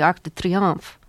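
Arc de Triomphe said the French way, "Triomphe" nasal; French accent. Real, not acted. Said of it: "I said that with such a French accent".

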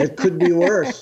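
"it could be worse" with a rising, laughing lilt; "worse" lifted up at the end; Yiddish grandmother. Retold or imitated. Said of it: "an old Jewish grandmother".

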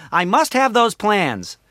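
slow, high, hammed-up villain demand; badly faked movie villain; Darth Vader. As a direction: draw it out as a lightweight villain. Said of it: "if I say Darth Vader's lines".

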